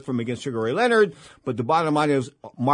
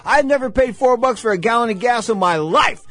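much higher, louder, slow disbelief; incredulous outrage; 9 semitones higher, 5 dB louder than usual. Real, not acted. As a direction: stretch it out, can't believe the price. Outraged at gas prices.

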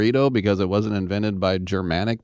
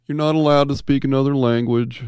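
usual speaking voice

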